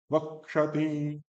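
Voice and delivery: वक्षति said slowly, syllables apart; slow recitation. Shown as a demonstration. Teacher models the verse word.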